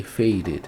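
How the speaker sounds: faded ending in a small "id"; -ed como "id". Shown as a demonstration. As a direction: finish faded on a separate "id" syllable. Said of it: "Sonzinho de I D". (faded com sonzinho de "id")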